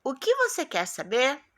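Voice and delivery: "O que você quer saber" asked with a rise at the end; question intonation. Shown as a demonstration. Teacher reading the question mark's line, questioning tune. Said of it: "eu faço a entonação da pergunta".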